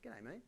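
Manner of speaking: quiet, squashed Australian greeting; closed-mouth Aussie mumble. Acted. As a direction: mumble G'day, mate without opening your mouth. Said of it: "You're not supposed to open your mouth".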